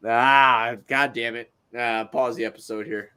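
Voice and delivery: trying hard not to laugh; holding back laughter. Real, not acted. Podcaster cracked up by a chat message, holding back laughter. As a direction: fight off the giggles and stall. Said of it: "I'm trying not to laugh".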